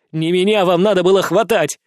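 mumbled in a gurgling voice. Acted. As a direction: mutter it, bubbling, not your own. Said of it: "пробормотал я не своим, каким-то клокочущим голосом".

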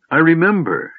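high, loud burst of joyful discovery; shouted. A narrator's reading. Kender shouting as he recalls the good dragons, loud and high. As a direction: shout it out like a kid who just got it. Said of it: "shouted Tasselhoff".

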